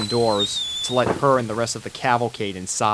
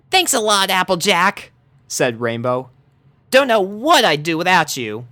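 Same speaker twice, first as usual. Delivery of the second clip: grateful pony; 7 semitones higher, 4 dB louder than usual. Acted. Rainbow thanking.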